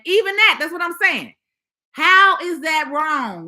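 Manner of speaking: high, loud, exasperated insistence; heated protest. Real, not acted. Protesting the platform's decision.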